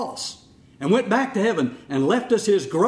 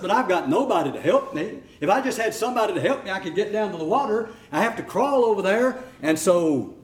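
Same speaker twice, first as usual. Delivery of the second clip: whiny paralyzed man. Acted. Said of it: "He begins to whine and complain".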